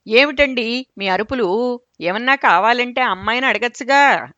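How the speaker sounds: mock drawl of a nagging wife; drawn-out retort. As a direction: drag the words out at him. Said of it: "దీర్ఘం తీస్తూ".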